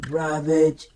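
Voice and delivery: robotic slow command; Soundwave command. Retold or imitated. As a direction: announce it like a machine. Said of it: "and he said".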